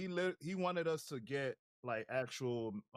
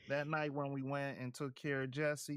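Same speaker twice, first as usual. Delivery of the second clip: put-on Southern accent. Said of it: "could we hear, uh, Bubba's Southern maga country accent".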